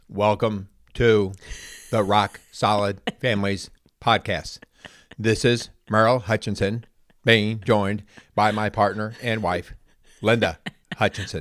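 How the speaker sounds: mechanical, flat, monotone robot voice. A podcast host opens the show and introduces his wife, in a robot voice. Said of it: "you sound like a robot".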